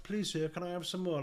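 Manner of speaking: mock begging orphan; pleading Oliver Twist. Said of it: "Like he's Oliver Twist".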